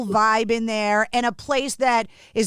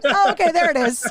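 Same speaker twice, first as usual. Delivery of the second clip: imitated listeners convinced; 5 semitones higher than usual. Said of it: "And they're like".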